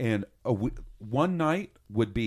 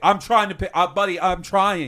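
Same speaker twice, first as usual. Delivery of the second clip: put-on pleading tone, higher and louder; 7 semitones higher, 9 dB louder than usual. Describing a game bug where a teammate can't be revived: imitating pleading with a teammate. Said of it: "pleading with your teammate".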